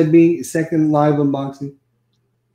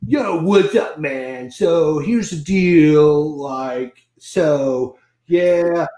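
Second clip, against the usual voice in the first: a light mock Californian dude voice; much slower than usual. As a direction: lightly play a laid-back surfer buddy. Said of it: "let me do Tony".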